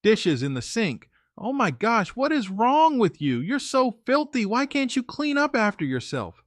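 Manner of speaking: high, scolding imitation of her yelling; mock yelling girlfriend. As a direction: mimic her shrill disgust at the dishes. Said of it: "starts yelling".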